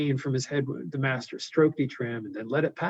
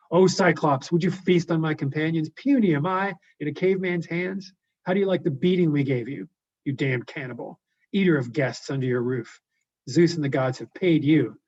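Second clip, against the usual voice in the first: yelling taunt; 3 semitones higher, 4 dB louder than usual. Acted. Odysseus yelling taunts at the Cyclops from his ship. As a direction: hurl insults across the water. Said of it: "So he's yelling".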